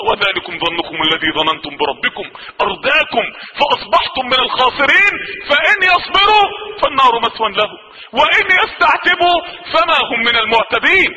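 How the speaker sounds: chanted Quranic verse; Quran recitation. Acted. Preacher reciting a warning to sinners, solemn chant.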